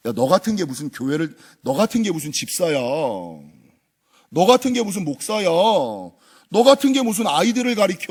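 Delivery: mild mocking accuser; a hint of a scornful devil; Satan's taunt. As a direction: sneer the accusations lightly. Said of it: "이런 생각을 주는 거예요".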